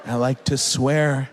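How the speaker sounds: slow, mock-sad little confession; tearful confession. Four-year-old repeating it to a parent, tearful confession. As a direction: draw it out like a sorry child. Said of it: "he cries, and he goes".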